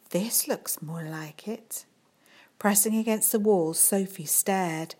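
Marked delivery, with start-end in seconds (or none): 0.1-1.9 slow, softer whisper. Acted. Teacher alone in the corridor, whispering to herself. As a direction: keep it secret, barely voiced.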